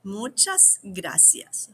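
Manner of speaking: Muchas gracias drawn out slowly; slow teaching demo. Shown as a demonstration. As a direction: model each syllable for the class. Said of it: "this will take some practice".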